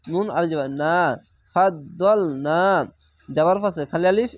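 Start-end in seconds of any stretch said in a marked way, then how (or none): 1.5-2.6 slow recitation, stretching the vowel of "না"; elongated vowel. Shown as a demonstration. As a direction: hold the final "না" long. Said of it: "এক আলিফ টেনে পড়বেন".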